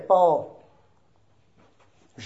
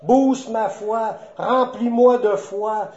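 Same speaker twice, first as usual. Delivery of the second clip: slightly raised, earnest appeal; crying out to God. Shown as a demonstration. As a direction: call on God with a modest lift in volume. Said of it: "faut crier à Dieu". (un appel à Dieu, légèrement appuyé)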